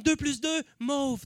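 right brain. Acted. Comic playing the irrational right brain, answer left unshouted. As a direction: offer MAUVE gently as the answer. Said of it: "t'as le cerveau droit qui est comme".

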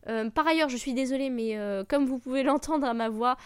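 sick, slightly hoarse voice. Real, not acted. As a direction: talk through a sore, hoarse throat. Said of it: "j'ai la voix cassée un petit peu".

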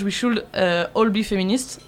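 "We should, euh, all be feminists" in French-flavoured English, slow and careful; French-accented English. Real, not acted. Host quoting the Dior t-shirt slogan in her own French-accented English. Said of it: "vous m'excuserez mon super accent anglais".

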